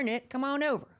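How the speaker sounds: put-on Texas accent. Host invites Nick over in a playful Texas accent. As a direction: lay on a light Texas twang. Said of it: "my Texas accent has gotten a little thicker".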